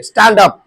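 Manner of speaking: "स्टैंड अप" with a wide open vowel; open-mouthed pronunciation. Shown as a demonstration. Teacher telling pupils the mouth must open, "स्टैंड अप" wide open. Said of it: "आपके मुंह खुलनी चाहिए".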